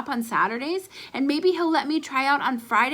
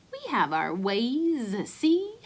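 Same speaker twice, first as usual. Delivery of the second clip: mock gangster snarl; slower than usual. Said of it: "snarled Ace".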